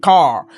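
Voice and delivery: car said with a long open English ah; English word car. Shown as a demonstration. Teacher showing French learners how A sounds in car. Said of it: "foutu ici c'est car".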